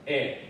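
"air" with no curl of the tongue on the R; British-style "air", R dropped; non-rhotic R. Shown as a demonstration. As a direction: say "air" leaving the final R silent. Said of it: "这个R是不卷舌的".

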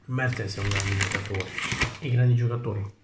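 talking with mouth full; chewing while talking. Real, not acted. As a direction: speak around a mouthful. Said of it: "Scusate se parlo con la bocca piena".

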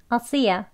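YA short and weak in "I'll see ya"; reduced you in "see ya"; casual "ya". Shown as a demonstration. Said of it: "이야 하는 발음으로 이 U를 발음".

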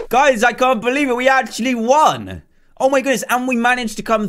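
high, amazed announcement; elated disbelief. Real, not acted. Winner telling viewers we actually won, amazed. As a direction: tell them as if barely believing it.

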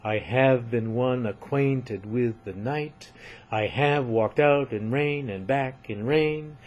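lightly metrical poem reading; poetry recitation. Shown as a demonstration. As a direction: read the lines to show the steady beat. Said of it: "each line is written in iambic pentameter".

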